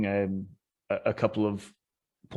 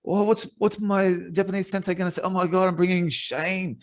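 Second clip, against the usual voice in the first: higher-pitched, fretting inner voice; mock panic; 6 semitones higher than usual. Student fearing he's kicked out of the dojo, mock panic. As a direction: replay a rising panic, lightly hammed-up.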